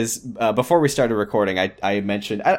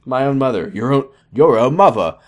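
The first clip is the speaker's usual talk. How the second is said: louder mock-Australian, trying out the vowels; horrible Australian accent; 5 dB louder than usual. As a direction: fumble a bad Australian accent, "mother" as "muvva". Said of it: "I've been doing this horrible Australian accent".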